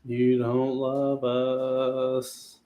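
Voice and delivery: "You don't love us" stretched very slow, each word drawn out; whiny drawn-out. Pretend. Friend whining at a buddy who leaves, very drawn out. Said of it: "repeats it drawn out".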